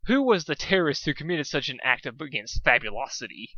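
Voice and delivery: Rarity aghast at his mane; dramatic fashionista. Acted.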